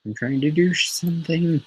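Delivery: annoyed Joker. Retold or imitated. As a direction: shoo her away, busy and fed up. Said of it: "other times it's just like".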